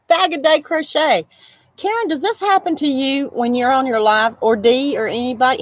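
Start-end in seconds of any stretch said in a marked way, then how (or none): 0.1-1.3 laughing fix. Real, not acted. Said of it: "God, I can't talk".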